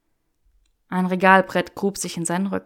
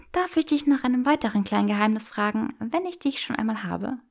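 put-on higher, playful young woman; teasing Hermione voice; 4 semitones higher than usual. Granger teasing Draco in the bookshop, playful and higher. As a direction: tease him with mock refusal.

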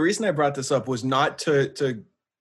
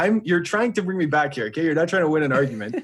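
mock scolding. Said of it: "And I'm like".

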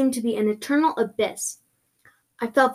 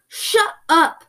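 loud, higher cut-in; shouting; 7 semitones higher, 6 dB louder than usual. Acted. Creepy voice cutting off excuses, shouted. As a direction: shout down the chatterer. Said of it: "shouted the voice".

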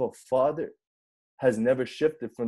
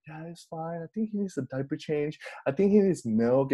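softly voiced calm mother; super calm; 2 semitones higher, 3 dB quieter than usual. Mother reassuring the panicky dad, imitated soft calm. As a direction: imitate an unbothered parent, starting very softly. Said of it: "Joanne was super calm".

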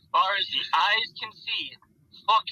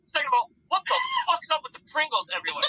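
retold exasperated shout; 10 semitones higher, faster than usual. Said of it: "I'm like".

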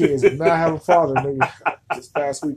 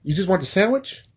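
clueless cashier; 6 semitones higher than usual. Acted. Cashier confusing the order.

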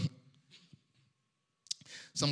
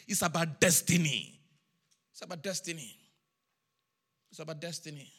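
low, soft and weighty, sinking softer; hushed refrain; 4 semitones lower, 7 dB quieter than usual. Real, not acted. Preacher pressing destiny on the congregation, hushed. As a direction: let the repeated phrase sink in quietly.

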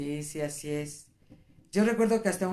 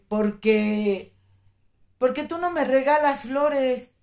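drawn-out, high-pitched mock whine; retold tearful complaint; 6 semitones higher, 4 dB louder, slower than usual. Wife retelling her tearful reproach to her husband, plaintive. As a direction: imitate a tearful, dragging complaint. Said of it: "me puse a llorar".

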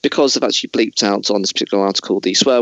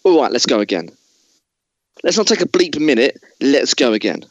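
higher, hammed-up raging; Christian Bale tirade; 4 semitones higher than usual. Host as Bale keeps raging at the cinematographer. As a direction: blow up at him again. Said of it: "I'm gonna be Christian Bale".

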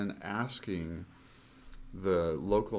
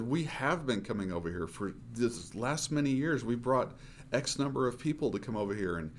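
mild retold anger; 5 semitones higher than usual. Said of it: "it just made me angry".

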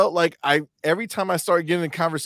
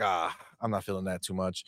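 quiet reluctant aside; 7 semitones lower, 10 dB quieter than usual. Retold or imitated. Retold reluctant inner thought.

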